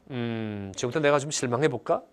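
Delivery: low pondering hum, then musing to oneself; mock deliberation. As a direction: act out weighing up a decision. Acts out deliberately deciding to feel.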